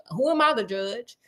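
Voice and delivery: a chuckle, then the question tossed off lightly; laughing it off. Retold or imitated. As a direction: laugh through the line, shrugging it off. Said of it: "And I was like".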